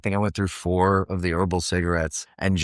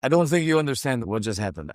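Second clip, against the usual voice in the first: lightly imitated Italian accent, a little higher; 4 semitones higher than usual. Assistant director takes the actor aside after the take, Italian accent. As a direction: imitate an Italian crew member's English. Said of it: "in the Italian accent".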